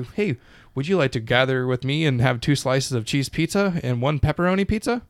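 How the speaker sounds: mock stiff politeness. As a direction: parody a stilted offer to a friend. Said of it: "that's not how you fucking talk".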